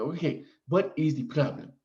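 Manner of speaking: lightly put-on Nigerian accent, clipped and careful; mock Nigerian accent. Nigerian nurse asking the patient what is wrong, light mock accent. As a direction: imitate the Nigerian nurse's accent, only a hint. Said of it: "she didn't talk like this. I'm just doing it for effect".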